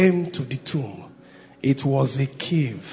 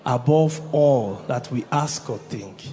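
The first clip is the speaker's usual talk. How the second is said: reading together; 3 semitones lower, 3 dB quieter than usual. Real, not acted. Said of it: "Together, one, two, go".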